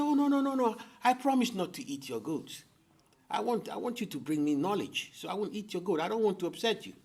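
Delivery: a hungry leopard sweet-talking the man; pleading leopard. Acted. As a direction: coax him, all innocent promises.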